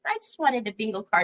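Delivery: quiet, quick little imitation of the customer; soft mock customer quote. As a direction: hush it like a sweet innocent customer. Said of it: "she goes".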